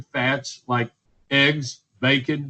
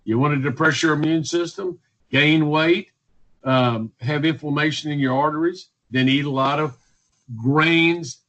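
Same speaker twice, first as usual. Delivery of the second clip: facetious advice. Acted. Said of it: "And I'm saying that facetiously".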